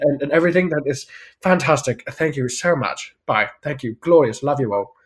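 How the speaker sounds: fluster politely through the thanks; English acceptance speech. Retold or imitated. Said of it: "an English person would go up there and be like".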